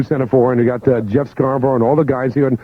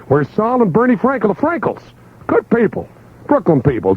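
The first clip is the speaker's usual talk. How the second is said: higher, gushing praise of the Frankels; excited hype; 7 semitones higher than usual. Acted. DJ cheering on the store owners in an ad. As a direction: lift up and gush over the owners.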